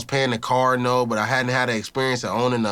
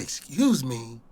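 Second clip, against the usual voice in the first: retold reply; 2 semitones lower, 4 dB quieter, slower than usual. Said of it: "And I say".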